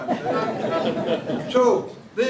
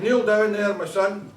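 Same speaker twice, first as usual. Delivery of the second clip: Scottish Pope; 3 semitones higher, 4 dB louder than usual. Acted. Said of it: "Scottish Pope".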